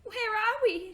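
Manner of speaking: put-on a scared little girl clinging to her brother; whimpered. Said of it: "she whimpered".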